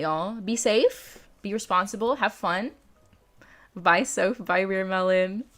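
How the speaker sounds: ordinary talk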